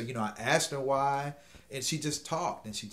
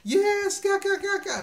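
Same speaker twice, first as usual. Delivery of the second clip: high giggly mock laugh, much louder; laughing yes; 7 dB louder than usual. Man retells the woman laughing at his cheat meal joke, high mock giggle. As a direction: imitate her giggling yes. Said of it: "she laughed".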